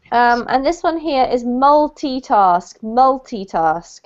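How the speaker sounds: multitask, slow and careful; slowly modelling multitask; model pronunciation. Shown as a demonstration. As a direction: multitask said clearly, syllable by syllable. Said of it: "teacher models the word".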